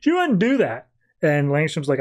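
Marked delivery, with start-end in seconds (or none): 0.0-0.9 louder mock insistence. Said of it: "Roy is just immediately pissed".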